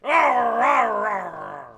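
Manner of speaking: mock grumpy old man grumble; mumbling growl. Imitating old Kent, a lightly voiced grumpy growl. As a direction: growl it like a cranky old giant. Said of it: "he would mumble".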